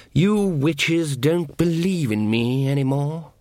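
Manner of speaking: languid, mildly plaintive lordly voice; self-pitying horned god. A narrator's reading. Neglected god complains to witch, languid self-pity. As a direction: draw it out, feeling neglected.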